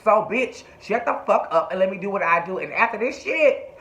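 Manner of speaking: mildly heated retold telling-off; chewing him out. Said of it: "was chewing Andre's ass out".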